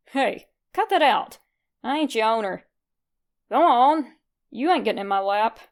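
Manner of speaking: loud, gruff scolding of a cat; gruff shooing. Acted. Red shooing the clingy cat off his leg, loud and gruff. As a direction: shoo the pesky cat off, annoyed.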